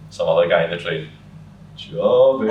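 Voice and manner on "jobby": louder, laughing echo. Retold or imitated. Another passenger echoing the word, louder and laughing. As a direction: toss it back with a laugh.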